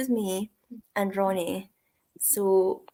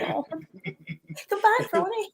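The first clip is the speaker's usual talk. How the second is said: plaintive call; 11 semitones higher than usual. Retold or imitated. Pleading after departing Ronnie.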